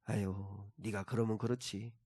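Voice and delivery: soft, dismissive sigh of scorn; mock sneer. Preacher imagining a scornful voice, soft and dismissive. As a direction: sigh it out like someone who expected failure. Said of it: "주님은 우리를 조롱하시는 분이 아니시구나".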